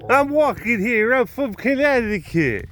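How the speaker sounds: put-on brash Connecticut accent, shouted. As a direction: bark it like a New York cabbie. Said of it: "Connecticut attitude".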